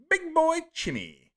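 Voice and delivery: put-on big boy Chimmy, squealed very high and loud; squeaky high name call. Streamer mock-calls a fan's name in a high squeal.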